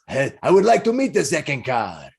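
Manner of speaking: hearty character voice; jolly stranger making an eager request; eager balding man. Acted. Balding man asks to meet the hero, eager. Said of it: "he goes".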